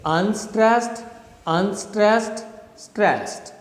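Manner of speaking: unstressed, unstressed held up, stressed falling at the end; chant-like count of unstressed, unstressed, then a final falling stressed; anapest rhythm. Shown as a demonstration. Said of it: "So the rhythm is".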